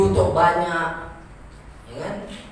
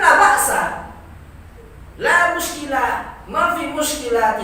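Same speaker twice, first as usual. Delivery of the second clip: correct Arabic demo; 7 semitones higher, 3 dB louder than usual. Shown as a demonstration. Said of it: "seharusnya kan".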